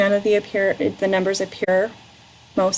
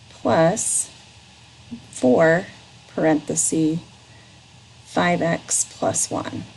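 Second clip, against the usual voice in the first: slow, word by word dictation; dictating; slower than usual. Shown as a demonstration. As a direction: spell out each term slowly. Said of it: "read it back to me".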